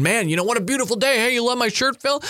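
high, fast, breezy carefree voice; a fantasist greeting Phil on the street in his underwear, carefree; mock carefree cheer. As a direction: play someone breezily oblivious in a fantasy world.

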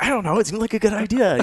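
high, sheepish shrug of a voice. Retold or imitated. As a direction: play it small and guilty. Sheepish reply to dad.

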